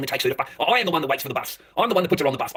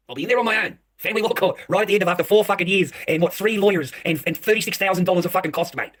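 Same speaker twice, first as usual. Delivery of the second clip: angry rant; 4 semitones higher, 4 dB louder than usual. Real, not acted. Venting about the court.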